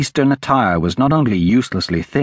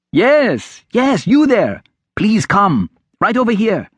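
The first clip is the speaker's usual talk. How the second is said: put-on high-pitched boy calling someone over; 10 semitones higher, 3 dB louder, slower than usual. A narrator's reading. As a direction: call eagerly across the crowd. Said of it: "he called".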